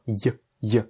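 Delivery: "y" cut very short, no full "ye" vowel; a faint little "y" glide; tiny y glide. Shown as a demonstration. Teacher corrects a possible full ye, tiny glide. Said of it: "Pas un ye".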